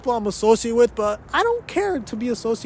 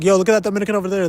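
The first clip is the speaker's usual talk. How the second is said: quick casual aside; much faster than usual. Retold or imitated. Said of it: "instead of be like".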